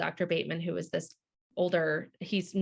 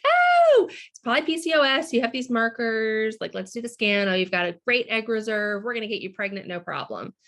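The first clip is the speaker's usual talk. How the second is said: upbeat doctors; 3 semitones higher, 4 dB louder than usual. Retold or imitated. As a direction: imitate doctors breezily promising an easy fix. Doctors' breezy optimism, retold.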